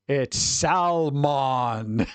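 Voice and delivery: very slow, drawn-out mock Lord of the Rings seller; fantasy salesperson. Mocking the corrector as a Lord of the Rings salesperson, lightly hammed. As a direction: stretch Salmon out like an elvish merchant. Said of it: "He sounds like a Lord of the Rings salesperson".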